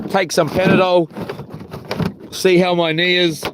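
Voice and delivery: ordinary talk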